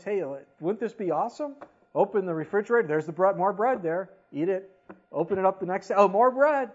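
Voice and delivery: high, loud, giddy glee; hammed-up delight at a fridge full of bread; excited fantasy. People wishing for bread every day, loud giddy glee. Crowd imagining endless bread.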